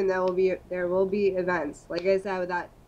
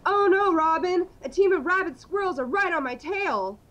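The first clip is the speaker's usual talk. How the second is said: higher, louder cartoonish superhero dialogue; hammed-up superheroes; 5 semitones higher, 4 dB louder than usual. Batman and Robin shout about rabid squirrels with high excitement. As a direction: ham it up like a campy Batman serial.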